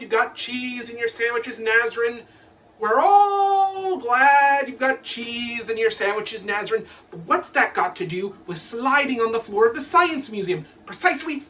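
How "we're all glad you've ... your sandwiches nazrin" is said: slow, heavy sarcasm; sarcastic teacher. Acted. Teacher to Nazrin about her sandwiches, slow sarcasm. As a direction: drag it out, mock-glad.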